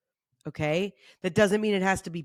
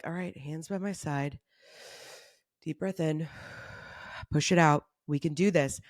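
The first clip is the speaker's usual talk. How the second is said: calm breathing cue; 3 semitones lower, 4 dB quieter than usual. Shown as a demonstration. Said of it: "leads a calming breath".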